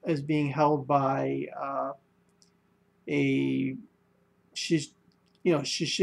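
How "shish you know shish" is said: stumbling on "shish-", cut off after the first syllable; tongue-tied. Real, not acted. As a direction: break off "shish-" halfway, unable to finish. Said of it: "I can't even say it right now".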